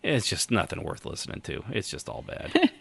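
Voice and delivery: soft breathy throwaway joke; whispered aside. Real, not acted. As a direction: drop to a whisper for the punchline. Joking aside about teenagers.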